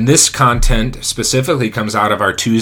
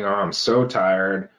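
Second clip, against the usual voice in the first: mock weary moan; slower than usual. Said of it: "that self-talk that you're using".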